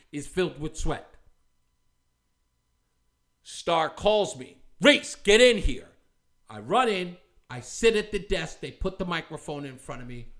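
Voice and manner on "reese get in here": urgent call. Retold or imitated. Producer calling him in.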